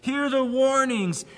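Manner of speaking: high-pitched prophetic warning; crying out. Acted. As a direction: call out the warning with urgency. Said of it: "crying out for the people to hear the warnings".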